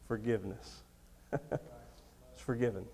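normal talking voice

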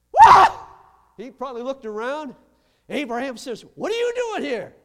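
loud, high "What are you doing here?"; fiery preaching shout. Real, not acted. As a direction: shout the surprise of heaven. Preaching story at full force.

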